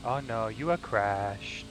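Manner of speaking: slow mock Asian accent; drawn-out, badly faked Asian accent. Spotter reporting a crash, very bad Asian accent. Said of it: "a very bad Asian accent".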